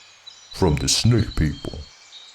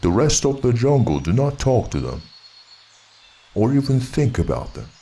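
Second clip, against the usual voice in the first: angry bear. Acted. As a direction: lecture the boy firmly. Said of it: "said Baloo angrily".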